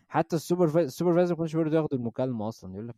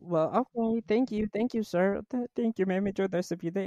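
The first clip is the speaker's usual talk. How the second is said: resigned customer; 9 semitones higher, 4 dB louder, slower than usual. Retold or imitated.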